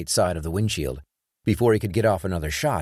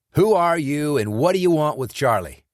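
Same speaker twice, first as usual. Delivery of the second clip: furious, loud and higher demand; enraged demand; 8 semitones higher, 4 dB louder than usual. Acted. Sean, enraged, demanding answers from the silent gunman. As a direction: shout it down at him, losing patience. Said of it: "Sean couldn't help but feel enraged".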